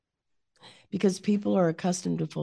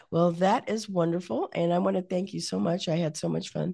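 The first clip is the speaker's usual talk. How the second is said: hoarse, croaky frog voice. Real, not acted. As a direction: speak through a croaky frog throat. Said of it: "So sorry I sounded like a frog here".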